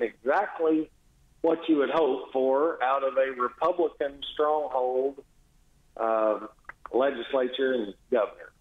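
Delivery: dry, understated sarcasm; sarcastic. Real, not acted. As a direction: say it straight-faced, meaning the opposite. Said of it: "I'm picking up your sarcasm".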